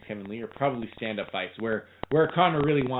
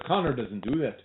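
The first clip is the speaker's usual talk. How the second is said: amateur Irish accent imitating a trainer. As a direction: attempt your best Irish accent. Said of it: "I'm doing my best Irish accent".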